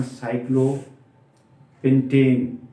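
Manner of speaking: साइक्लोपेंटेन ending in "tane"; -ane ending. Shown as a demonstration. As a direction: end साइक्लोपेंटेन with a long e, like "ten" stretched. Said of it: "उसका उच्चारण".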